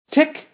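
high, short spoken ticks; mechanical ticking. A narrator's reading. Metal man ticks between phrases, high mechanical ticking. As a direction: tick like clockwork, high and evenly spaced. Metal man's clockwork tick.

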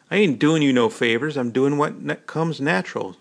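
ordinary delivery, nothing marked

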